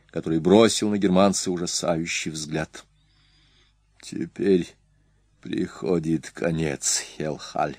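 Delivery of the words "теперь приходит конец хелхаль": slow, softer, lower aside; murmured aside. A narrator's reading. Attila to the old man beside him, hushed. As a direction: say it low and slowly, a voiced hushed aside. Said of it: "шепнул он стоявшему возле".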